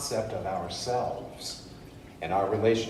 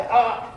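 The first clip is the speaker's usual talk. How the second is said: mock gasp; 12 semitones higher, 5 dB louder than usual. Candy bar gets stuck.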